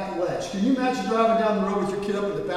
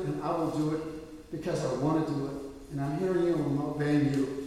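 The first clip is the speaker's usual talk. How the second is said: prayer; 4 dB quieter than usual. Acted. Believer telling the Lord why they take the supper, subdued prayer. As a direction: pray it quietly and earnestly.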